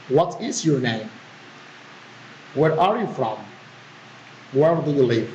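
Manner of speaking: "What is your name", "Where are you from", "Where do you live" falling in pitch; falling intonation. Shown as a demonstration. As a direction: let "name", "from" and "live" drop as plain wh-questions. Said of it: "the filing intonation".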